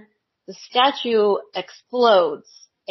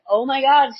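high, loud mock alarm; retelling her own horror at the screen; shocked gasp; 6 semitones higher, 4 dB louder than usual. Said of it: "And I'm like".

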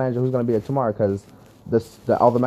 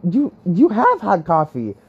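incredulous question; 5 semitones higher, slower than usual. Retold or imitated. Confronts the server.

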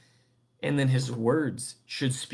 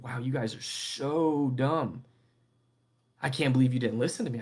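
mock scolding. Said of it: "There is no immediate rebuking of".

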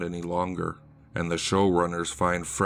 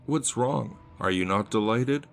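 puzzled question. Acted. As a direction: ask as if baffled she isn't pleased. Red puzzled by her reaction.

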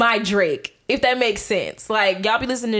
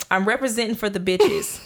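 poem recital; 3 dB quieter than usual. Retold or imitated. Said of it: "it goes like this".

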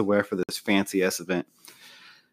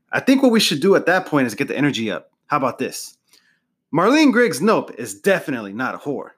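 hyped speech pitch; 3 semitones higher than usual. Acted. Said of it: "and Tom says".

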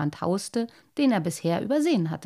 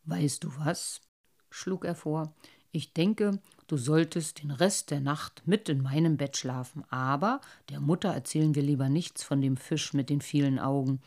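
lower, softer, gentle father voice; comforting father; 5 semitones lower, 4 dB quieter than usual. Acted. Father comforting his son after a nightmare, gentle. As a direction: soothe him, confide a plan.

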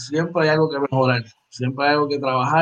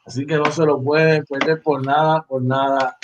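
upbeat radio plug for the morning show; promo read. Acted. Host reminding listeners of the morning show, announcer read.

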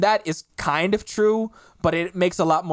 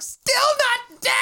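exasperated note; slower than usual. Retold or imitated. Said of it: "and I wrote down, like".

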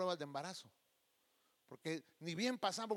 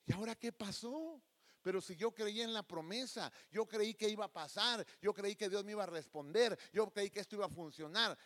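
slightly raised, insistent complaint; bewildered protest, acted; 3 semitones higher than usual. Fired believer questioning the promise, mock bewildered protest. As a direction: plead your case in mild disbelief.

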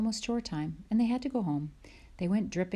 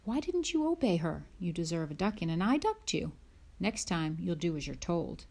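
Pa scolding. Acted. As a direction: scold the disobedient daughter. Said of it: "Pa said".

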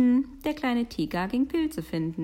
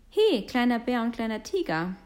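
louder, higher hailing call; 4 semitones higher, 4 dB louder than usual. Acted. Someone hailing little bear and tiger, calling out. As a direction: hail them to get their attention.

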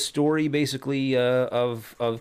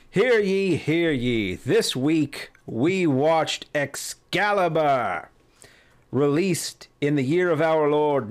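town crier; 3 semitones higher than usual. Acted. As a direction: announce it like a royal herald. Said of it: "I'm gonna stop doing that now".

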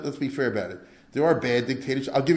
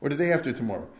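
hammed-up slippery ruler promising to leave; mock politician. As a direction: parody a shifty politician stalling. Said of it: "You ever hear any politicians talk like that?".

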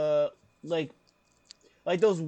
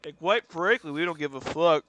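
lightly imitated TV doctor; mock talk-show counselor being blunt; Doctor Phil; 5 dB louder than usual. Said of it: "a half a Doctor Phil".

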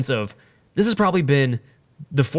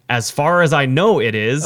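slow, louder, half-asleep reply; a slow dazed shrug of an answer; groggy answer; 2 semitones higher, 5 dB louder, slower than usual. Retold or imitated. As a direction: answer like you're barely awake. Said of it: "this is my groggy mind not thinking".

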